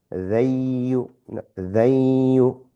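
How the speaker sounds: slow they you with no n sound; merged they you. Shown as a demonstration. Teacher slowly modelling they you without the n. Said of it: "We're not saying than you".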